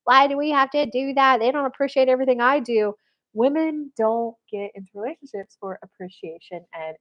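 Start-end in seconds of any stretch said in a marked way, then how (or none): 0.1-2.9 indignant complaint. Retold or imitated. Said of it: "all you hyper masculine women".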